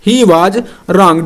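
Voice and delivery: he was wrong, stretched out word by word; drawn-out dictation of he was wrong; slow dictation. Shown as a demonstration. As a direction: spell it out slowly for the class to write. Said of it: "dictating slowly to write".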